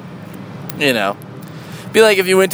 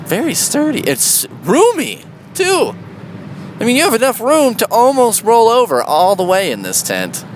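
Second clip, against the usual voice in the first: sarcastic praise; 8 semitones higher than usual. Acted. Sarcastic praise of a tiny tent.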